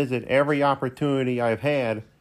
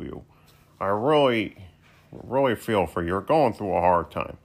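a lightly voiced heckling sidekick, a bit lower; a wisecracking co-host who turns briefly sincere, voiced by the same person; 3 semitones lower than usual.

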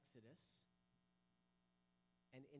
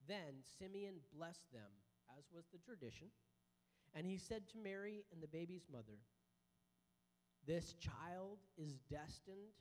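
scripture reading; 3 semitones lower than usual. Acted. Reads Luke chapter two.

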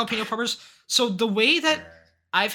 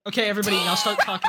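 fast laughing director's cue; film director call; much faster than usual. Acted. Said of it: "Quiet on set".

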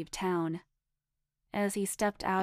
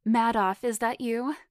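raised, louder, anxious question; alarmed calling; 4 semitones higher, 6 dB louder than usual. A narrator's reading. Foxy calling to Madoff on the phone, alarmed. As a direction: call out in alarm, rising pitch.

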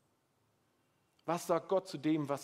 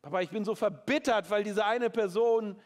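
bitter plea; 5 semitones higher, 7 dB louder than usual. Pretend. Example prayer, bitterness.

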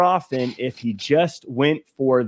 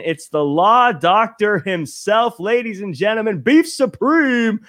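slow drawn-out ring announcer intro; hype announcer; 4 semitones higher, slower than usual. Acted. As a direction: stretch out the name like a boxing announcer. Host's hype introduction of guest.

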